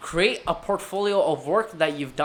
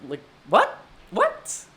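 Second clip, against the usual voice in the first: incredulous what; 2 semitones higher, slower than usual. Retold or imitated. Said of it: "And I'm like".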